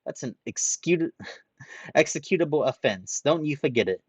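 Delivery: loud indignant rant. Acted. Ranta ranting at Haruhiro, loud and indignant. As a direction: keep the anger boiling.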